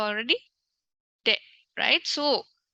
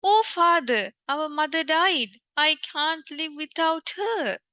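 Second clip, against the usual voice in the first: mock crying son; 4 semitones higher than usual. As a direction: play the son's fake grief, stretched out. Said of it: "son is crying and said".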